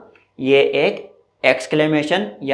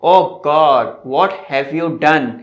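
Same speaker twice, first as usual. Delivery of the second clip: mock dismay; much slower than usual. Shown as a demonstration. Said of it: "दूसरे sentence में".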